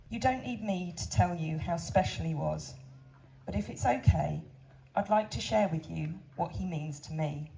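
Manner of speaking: steady, heartfelt reading of a condolence letter; letter read aloud to visitors, moved but composed. Real, not acted. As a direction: read it to the crowd, holding back tears.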